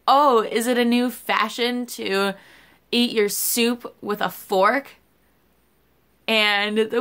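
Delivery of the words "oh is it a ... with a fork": higher, slow, snide put-down; mocking snooty customer. Imitating a rude diner's snide remark at the waitress. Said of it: "and he was like".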